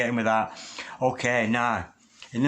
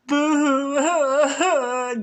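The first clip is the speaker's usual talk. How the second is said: a high burst of laughter; high loud laugh; 13 semitones higher, 4 dB louder than usual. Real, not acted. Laughs at the flipped card.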